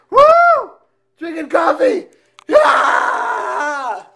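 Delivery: loud, high, hyper cheering; wired on coffee, whooping; too much caffeine. Pretend.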